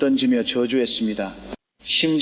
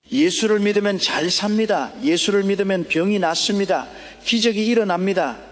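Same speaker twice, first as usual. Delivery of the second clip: raised, ringing preaching cry; fervent young preacher; 5 semitones higher than usual. Retold or imitated. Young evangelist preaching hope to starving villagers, raised and ringing. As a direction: proclaim it high and bold to the poor crowd. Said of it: "그 비참한 사람들을 향해".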